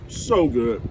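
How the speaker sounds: talking through a mouthful of food; words round a bite of fish; mouth full. Real, not acted. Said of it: "talking with my mouth full".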